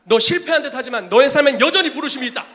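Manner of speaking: shouted prophecy. Acted. Prophet sending the fallen believer back, shouting. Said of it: "다시 선지자에게로 보내요".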